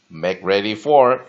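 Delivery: slow, loud read-aloud for students; slow model reading. Shown as a demonstration. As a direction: drag the phrase out for learners. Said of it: "let's repeat the pronunciation". (慢速示范朗读)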